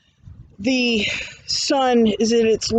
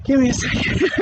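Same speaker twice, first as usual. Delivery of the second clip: catching breath near the top; breathless and pausing; 2 semitones higher than usual. Real, not acted. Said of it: "sorry, I'm out of breath".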